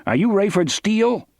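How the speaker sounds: booming bullhorn voice. A narrator's reading. Guard calling to the car through a bullhorn, booming. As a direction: boom it out over a loudspeaker. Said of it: "came the booming voice".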